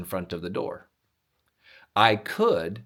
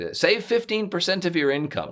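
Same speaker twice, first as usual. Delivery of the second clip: higher, mocking hillbilly accent; sarcastic hillbilly accent; 7 semitones higher than usual. Mocking radio money advice in a sarcastic hillbilly accent. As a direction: scoff at the advice in a hillbilly twang. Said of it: "I default to a hillbilly accent".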